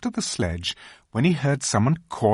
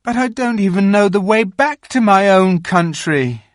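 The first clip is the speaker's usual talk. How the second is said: put-on high, earnest boyish plea; pleading boy; 11 semitones higher, 8 dB louder than usual. A narrator's reading. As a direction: beg to be understood. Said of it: "pleaded Edmund".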